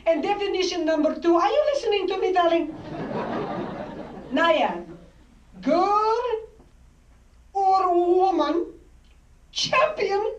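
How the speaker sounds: put-on tender, grand Greek-accented father announcing destiny; Greek father's accent. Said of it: "spoke with a thicker accent than my father".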